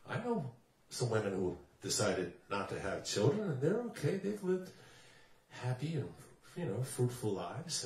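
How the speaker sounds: soft, low, lightly acted reassurance; gentle reassurance. Man consoles upset woman at the bar, gently reassuring. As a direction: quietly talk someone round.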